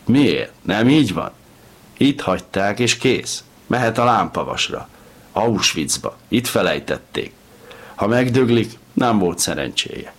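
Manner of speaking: loud, jeering tirade; yelling. A narrator's reading. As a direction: keep shouting him down. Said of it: "ordította".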